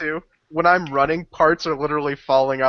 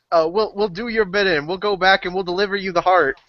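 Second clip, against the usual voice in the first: higher-pitched pleading call; pleading yell; 5 semitones higher than usual. Acted. Player's character offers captors the heart, pleading call. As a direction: bargain with captors in a raised pitch. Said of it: "I'm gonna yell".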